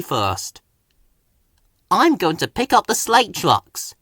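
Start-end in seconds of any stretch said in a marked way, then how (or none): 1.9-3.9 huffed. A narrator's reading. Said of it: "Thomas huffed".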